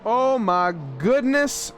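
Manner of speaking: high, slow delighted exclamation; excited greeting. Real, not acted. Co-host welcoming Casey to the booth, high and slow with real delight.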